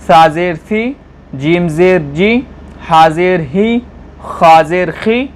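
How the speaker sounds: steady chant of each letter with zer; recitation drill. Acted. Teacher reciting the alphabet for students, steady drill. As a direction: recite each syllable clearly in turn.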